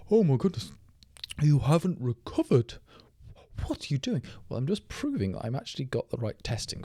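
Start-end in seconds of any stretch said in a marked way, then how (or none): 0.1-2.7 higher and louder, fussing like a worried viewer; mock viewer panic. Streamer mocking viewers who fear there's no recovery, high and loud. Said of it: "People are". 3.7-4.2 mock viewer panic. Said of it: "People are".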